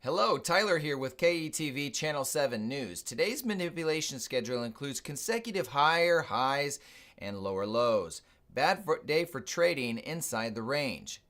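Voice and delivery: bright TV news anchor read; newscaster voice. Pretend. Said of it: "it sounded like a newscaster".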